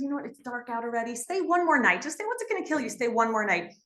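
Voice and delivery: a lightly voiced father coaxing, pitch jumping up. Father urging his son-in-law to stay, lightly coaxing. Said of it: "the father says".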